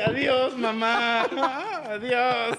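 high, loud mock goodbye wail; child's farewell. Imagined child saying goodbye to mom, high mock wail. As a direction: call out a hammed-up childlike farewell. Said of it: "te abraza y te dice".

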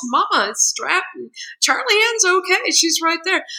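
a hint of a four-year-old pointing out the obvious; little boy. Four-year-old son telling his mother the baby is strapped on, lightly voiced child. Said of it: "And he goes".

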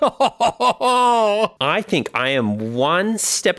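laughing through the words; high, slow and laughing. Real, not acted.

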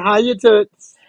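lightly mimicking a gangster's moll; a hint of a brassy dame greeting; Bobby's voice. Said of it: "I love when you mimic Bobby".

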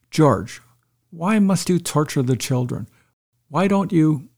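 retold stern challenge, lightly acted; stern confrontation. Wife confronts husband to protect her children, mildly stern. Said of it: "very sternly with".

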